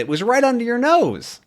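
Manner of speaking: "It was right under your nose" pitched high, falling on nose; emphatic teacher repeat; stress on nose. Shown as a demonstration. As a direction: lift the whole line, drop on nose.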